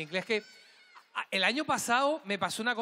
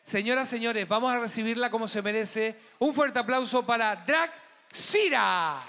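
gala announcer. Acted. Gala host whips up the audience for Drag Sira, booming. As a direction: build the crowd up for the next act.

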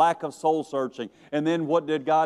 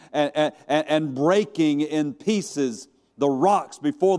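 forceful scripture reading. A narrator's reading. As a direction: read the storm out with rising force. Dramatic reading of wind, earthquake, fire.

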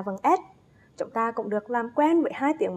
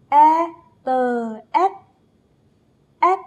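spelling aloud; 3 semitones higher, 4 dB louder, much slower than usual. Shown as a demonstration. Teacher spells the rhyme with her class, chanting. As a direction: chant "E, tờ, S" as separate, louder beats. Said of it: "Thực hiện cùng với cô nào".

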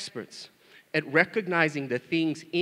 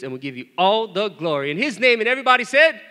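rousing prayer close; 3 semitones higher, 7 dB louder than usual. Real, not acted. Pastor cueing the church's amen, rising call. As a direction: build louder toward the amen.

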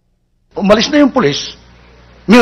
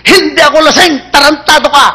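higher, cheeky cursing; defiant drunk; 5 semitones higher than usual. Acted. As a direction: talk back at the cop. Drunk curses the cop.

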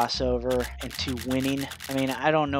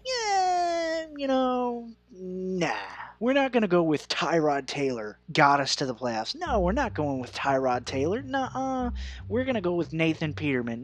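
high, whiny mock voice of the front office; mocking the Bills; 5 semitones higher than usual. Fan mocking the Bills front office, high whiny impression. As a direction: sneer out their quarterback picks in a high, childish whine. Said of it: "the fucking Bills are like".

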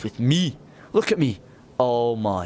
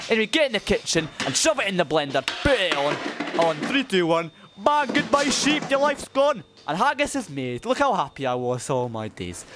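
put-on higher, broad comic Scottish accent throughout; hammed-up Scottish accent; 4 semitones higher than usual. Vlogger showing off his Highland life, hammed-up Scottish accent. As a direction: play a proud, cheeky Scotsman in a thick Scottish accent. Plays a stereotyped true Scotsman.

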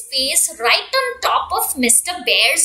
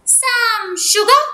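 chirpy duck; 6 semitones higher than usual. Acted. Duck asking.

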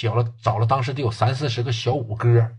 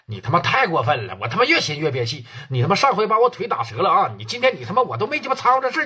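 higher, fast furious tirade down the phone; angry rant; 4 semitones higher than usual. Acted. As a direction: yell threats over the phone. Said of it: "给宋启航气得干饭店了".

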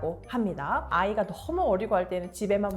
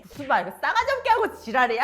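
fast, loud mock swearing; foul cursing; 2 semitones higher, 6 dB louder, faster than usual. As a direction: imitate a wife cursing back, quick and loud. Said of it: "쌍욕을 하기 시작했습니다". (쌍욕 퍼붓는 말투 흉내)

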